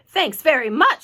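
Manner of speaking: irritated fire chief's loud retort; snapped. A narrator's reading. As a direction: snap it back curtly. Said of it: "snapped the head of the fire department".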